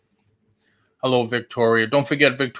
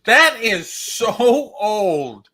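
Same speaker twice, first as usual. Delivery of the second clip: higher, slow laughing groan; 9 semitones higher, much slower than usual. Real, not acted. Laughing at own joke.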